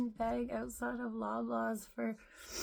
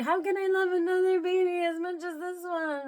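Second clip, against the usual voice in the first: anxious inner voice; 7 semitones higher, 9 dB louder, faster than usual. Retold or imitated. Retold worry about second baby.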